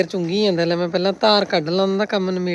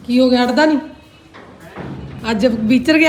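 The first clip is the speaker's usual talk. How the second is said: dramatic loud aunty; 4 semitones higher, 3 dB louder than usual. Real, not acted. Calling out to Pinder at gate.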